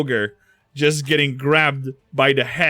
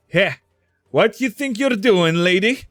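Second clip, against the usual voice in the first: raised, louder voice calling someone out; indignant challenge; 6 semitones higher, 6 dB louder than usual. Acted. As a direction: call her out sharply, pitched up. Irvin challenges Aloysia grabbing the relic.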